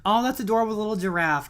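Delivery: high, loud, fast squeal of delight; gushing at an adorable gift. Real, not acted. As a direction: squeal over the cute giraffe.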